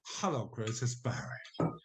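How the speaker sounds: starts normal, fades to a whisper on the name; hello at full voice, then whisper the name; tapering into whisper. Retold or imitated. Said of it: "this amazing voice that just was like that".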